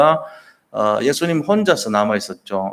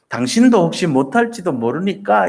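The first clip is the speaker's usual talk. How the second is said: doubtful nuance; 5 semitones higher than usual. Retold or imitated. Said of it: "이런 뉘앙스예요".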